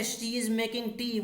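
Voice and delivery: very slow, each word set apart; slow reading. Shown as a demonstration. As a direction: drag the sentence out for students to follow. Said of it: "next है".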